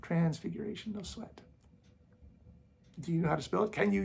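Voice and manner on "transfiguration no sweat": "Transfiguration" tossed off softly, as if it were easy; mock the claim it came easily; sarcastic offhand. Mocking critics who say Joseph just pulled it up, soft and offhand. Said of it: "he just pulls it up like that".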